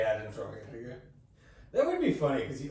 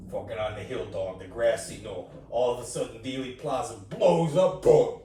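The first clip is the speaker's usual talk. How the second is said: lightly imitated tall-tale teller; Joey Diaz; 4 dB louder than usual. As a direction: loose impression, building to a loud punch. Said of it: "Just Joey Diaz lying about having been".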